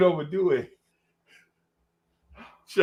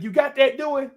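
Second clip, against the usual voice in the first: higher woman's voice; 11 semitones higher, 4 dB louder than usual. Retold or imitated. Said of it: "Babe's like".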